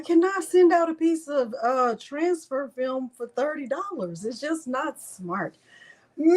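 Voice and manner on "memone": high, loud cry of a name; shouted name. Real, not acted. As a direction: belt out the name in a sudden yell. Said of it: "say her name like that".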